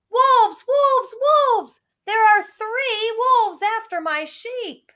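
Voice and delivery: high, loud, slow desperate shout; desperate yelling. Acted. Shepherd boy yelling for help, high and loud. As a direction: scream for help in real panic. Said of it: "this time yelling".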